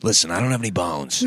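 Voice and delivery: lightly put-on comedian impression; Tim Dillon. Showing a friend the comedian's voice, light impersonation. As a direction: show how the comic would say it. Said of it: "know that about Tim Dillon".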